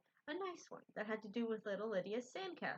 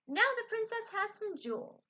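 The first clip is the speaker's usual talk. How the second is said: high-pitched excited announcement; delighted child; 10 semitones higher, 4 dB louder than usual. A narrator's reading. Amy admiring the doll's necklace, delighted. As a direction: proclaim it with a high lift.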